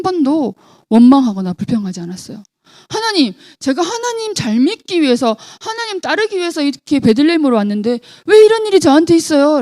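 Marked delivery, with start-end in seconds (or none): 2.9-9.6 higher-pitched whiny complaint to God; complaining to God. Pretend. 하나님께 왜냐고 따지는 룻, 높은 투정 섞인 불평. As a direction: plead like a wronged child asking God why. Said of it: "라고 하나님께 불평하거나 원망하지 않았어요".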